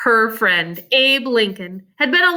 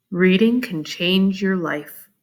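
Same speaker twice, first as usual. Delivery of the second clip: put-on lower, slow gentle boy's voice; Abe, quiet; 6 semitones lower, slower than usual. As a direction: say it softly like a wise friend. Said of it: "he said quietly".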